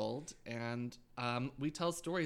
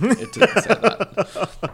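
mock voice; 8 semitones higher, 19 dB louder, much slower than usual. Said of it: "put-on voice".

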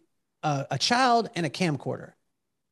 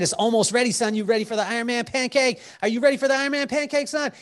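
higher, fast and eager; hyped dad; 6 semitones higher, faster than usual. Retold or imitated. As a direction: build the suspense for the kid. Dad hyping pancake to son.

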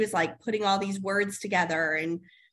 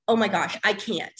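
exasperated mom; 3 dB louder than usual. Retold or imitated. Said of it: "I will just be like".

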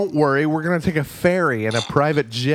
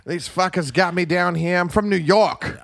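mock New York accent; 2 semitones higher than usual. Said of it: "I keep doing a Boston accent".

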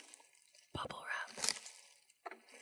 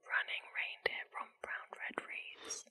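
slow whisper. Shown as a demonstration. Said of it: "I think I could do that fast".

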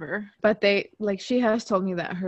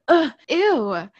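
grossed out; 7 semitones higher, 9 dB louder than usual. Retold or imitated. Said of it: "And then he was like".

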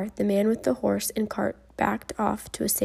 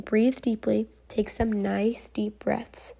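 slow, whispered coaxing; soothing whisper; slower than usual. Acted. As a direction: lull the boy to breathe slowly. Anaesthetist soothes child.

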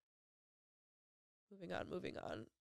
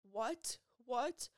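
higher-pitched imitation of horrified disbelief; mock a distraught cry without screaming; retold panicked crying; 6 semitones higher, slower than usual. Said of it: "She starts screaming and crying".

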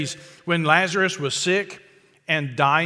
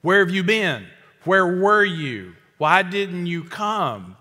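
louder, slowed, reproachful questions; frustrated reproach; 3 dB louder, slower than usual. Retold or imitated. Pastor voicing Martha blaming Jesus for coming late, frustrated reproach. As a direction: press him as a hurt, let-down sister. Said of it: "it's kinda sorta your fault".

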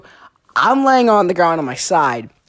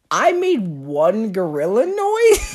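incredulous; slower than usual. Real, not acted. Indignant retelling of own offence.

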